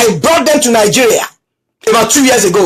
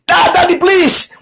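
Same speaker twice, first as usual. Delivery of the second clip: higher, mock-pleading kid; pleading child; 4 semitones higher than usual. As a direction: beg like a scared child. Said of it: "they'll be screaming".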